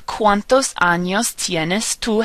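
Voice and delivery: slow, measured Spanish model sentence; slow teacher's rhyme for learners to copy; pronunciation demo. Shown as a demonstration. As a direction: spell out each vowel sound slowly. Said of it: "Has all of our vowels in it".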